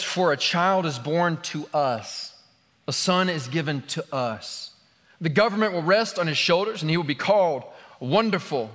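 measured public Bible reading; scripture reading. Real, not acted. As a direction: read the prophecy out to a congregation. Reads scripture aloud.

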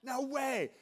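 high, loud, gleeful shout of disbelief; Bob Goff's voice. Retold or imitated. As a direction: belt it out like a delighted, whimsical friend. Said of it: "If you know his voice, it's exactly how it sounds".

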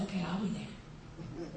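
low, soft, slow and easy; unhurried Jesus. Acted. Jesus answering the messenger, soft and slow. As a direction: drop it low and slow, no rush.

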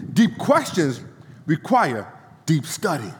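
slow, deliberate preacher reading with weighty pauses; measured oratorical recitation, pausing between phrases; emphatic quote reading. Acted. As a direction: read it out phrase by phrase, punching key words. Reads out a quotation to congregation.

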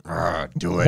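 mock growled German-style order; playful Dom command. Explaining the appeal of German accents, playful Dom command. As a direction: act the bossy Dom, half in jest. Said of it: "I like that Dom".

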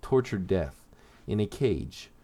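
measured, deliberate origin-story narration. Acted. Host tells subscribers a villain's origin, in measured story narration. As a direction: read it out as a scripted character history.

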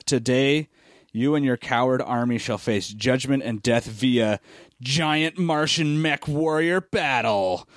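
slow, grand, pompous robot announcement; hammed-up villain robot decree; mock robot proclamation. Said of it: "And that is the dumbest thing".

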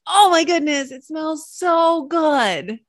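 high, slow, swooning delight; breathy-sounding rapture over flowers. Retold or imitated. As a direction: gush over the flower scent.

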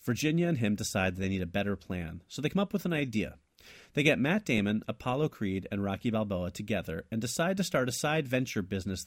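measured read-aloud of a written tale; story narration. A narrator's reading. Co-host reads his invented sequel, steady story narration. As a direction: narrate the plot in steady phrases.

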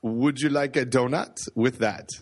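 put-on half-hearted, clumsy French accent; badly faked French accent. Counter clerk in Quebec offering a donut, bad French accent. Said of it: "That's a really bad French accent".

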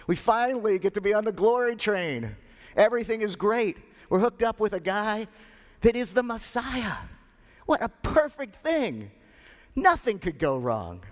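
high, thrilled and boastful; elated disciples. Acted. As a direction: gush like you're riding the glory train. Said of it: "the disciples were saying".

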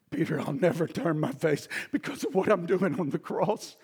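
hushed loving covenant vow; tender reassurance. Acted. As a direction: comfort a friend who failed you. Jesus reassures failing Peter.

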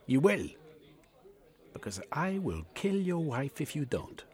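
high, cold threat; calm menace over the wife; threatening Yegman. A narrator's reading. Yegman threatens to kill Cornucope's wife, cold.

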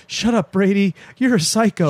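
high-pitched put-on retort to a pest; imitated retort. Marty to Brady after the snake prank, high mock retort. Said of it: "Marty's like".

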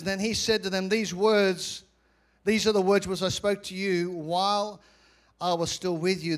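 measured, emphatic pulpit reading; scripture reading. Acted. Preacher reading the Gospel of Luke, firm declamation. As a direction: declaim the verse firmly.

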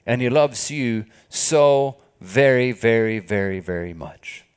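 slowing and softening on very much; tender fade. Acted. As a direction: let the love sink in gently. Tender fading on God's love.

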